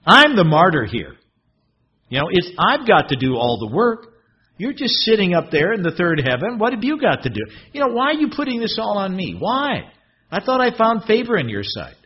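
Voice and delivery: high, put-upon complaint to God; a touch of whining Moses; whining martyr. Acted. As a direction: play the martyr, pleading.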